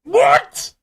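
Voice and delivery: real disbelief jumping up into a squeak; shocked squeal. Real, not acted. Streamer reacting to a chat message, stunned squeak. Chat says raccoons taste decent.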